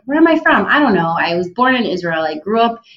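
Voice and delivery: playfully exasperated answer to a boring question; mock exasperated answer. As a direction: toss it back with cheeky exasperation. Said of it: "my favorite thing to say now".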